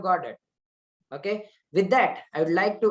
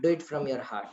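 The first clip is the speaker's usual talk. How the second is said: "Do it from your heart" said lower and softer, "Do" only lightly leaned on; gentle repeat; 5 semitones lower, 4 dB quieter than usual. Shown as a demonstration. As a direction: repeat the plea quietly, like a tender reminder.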